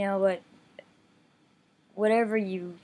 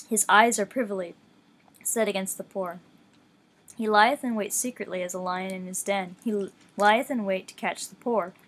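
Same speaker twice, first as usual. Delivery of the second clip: a slightly louder, measured Bible read-along; scripture reading; 4 dB louder than usual. Acted. Reading Psalm ten aloud to listeners, measured scripture voice. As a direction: read the psalm with steady reverence.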